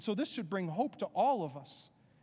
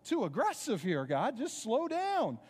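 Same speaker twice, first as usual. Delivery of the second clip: skeptical listener; 4 semitones higher than usual. Retold or imitated. Preacher voicing a doubting churchgoer, mock protest. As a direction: play the doubter telling God to ease up. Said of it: "And you're like".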